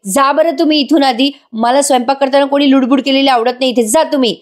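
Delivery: retold scolding, lightly acted; mock snapping. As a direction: imitate an annoyed wife shooing her husband. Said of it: "Sayali वसकते त्याच्यावर आणि म्हणते".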